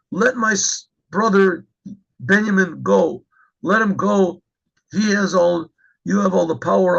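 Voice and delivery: acted begging, drawn-out plea; pleading. Yehuda begs Yosef to free his brother, mildly acted pleading. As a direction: plead slowly, stressing each short phrase. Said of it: "begging, begging for his life, pleading, crying".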